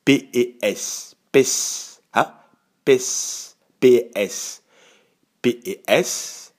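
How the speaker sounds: "P E S" spelled letter by letter, with "pes" as a breathed, voiceless syllable; spelling out letters. Shown as a demonstration. Pastor spelling Pessa's root letters for the congregation. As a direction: sound out "P E S" one letter at a time. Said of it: "on fait taire les voyelles".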